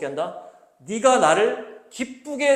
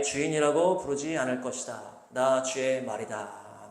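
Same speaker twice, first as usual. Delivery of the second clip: slow, solemn Bible reading; scripture reading; 2 semitones lower, slower than usual. Acted. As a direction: read the verses slowly and reverently. Reads scripture aloud slowly. (천천히 엄숙하게 성경 낭독)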